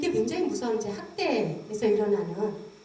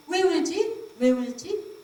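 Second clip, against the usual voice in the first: puzzled mother; 5 semitones higher, much slower than usual. Retold or imitated. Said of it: "애기가 다시 잉잉 거리니까".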